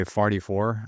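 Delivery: "forty-four" with ah in the first syllable, like farty; Midwestern "farty-four". Shown as a demonstration. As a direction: say "forty-four" Saint Louis style, starting "far-". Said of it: "A's where they shouldn't be".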